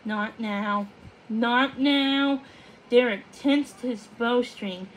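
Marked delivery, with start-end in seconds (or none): 0.0-0.9 hushed, frightened gasp of a plea; gasping fear. Acted. Odette begging the clouds to spare the moon, hushed and frightened. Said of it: "Odette gasped". 1.3-2.4 pressing, desperate repeat of the plea; urgent plea. Acted. Odette pleading harder as the cloud nudges the moon, urgent and desperate. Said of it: "Odette gasped".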